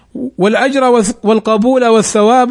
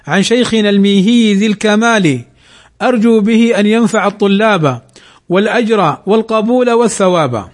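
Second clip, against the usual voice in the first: poem recitation. Shown as a demonstration. Reciting the poem's verses. (إنشاد متزن للأبيات)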